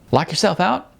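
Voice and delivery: put-on a cheerful young man jogging over; friendly Sean. Sean calls to Icon.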